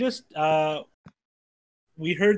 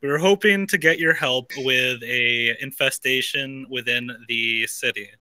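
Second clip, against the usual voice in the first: weary sigh; 3 semitones lower, 3 dB louder, slower than usual. Acted. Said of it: "I hunch over and sigh and say".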